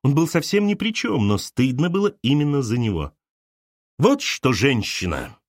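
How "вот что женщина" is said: the mother addressing Arina sternly. Acted. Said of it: "строго сказала Галина мать". (строго, свысока)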